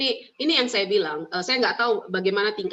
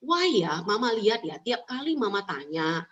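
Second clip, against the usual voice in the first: gentle mother voice; slower than usual. Shown as a demonstration. Mother gently asking her son why he always says no. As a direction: ease the child into talking, slowly and tenderly. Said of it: "tanya sama dia".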